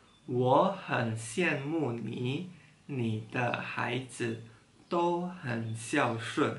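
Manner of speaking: slow reading. Shown as a demonstration. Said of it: "sekali lagi".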